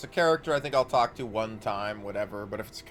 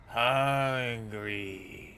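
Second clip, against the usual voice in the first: ghoul voice. Acted. Voicing a diseased beggar.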